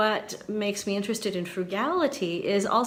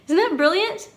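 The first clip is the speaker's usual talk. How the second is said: delighted; 10 semitones higher, 7 dB louder than usual. Real, not acted. Moved by a comment.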